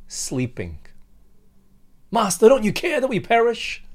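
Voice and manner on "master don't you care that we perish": high, loud frustrated outcry. Acted. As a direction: hurl the question at Jesus in anger. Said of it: "You could sense their anger".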